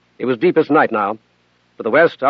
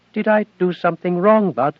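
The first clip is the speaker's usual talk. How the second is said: higher, small and worried; small AI girl voice; 5 semitones higher than usual. Acted. Athena asks Bud if she failed, small and timid. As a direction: ask it like a scared child. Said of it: "Her voice was small".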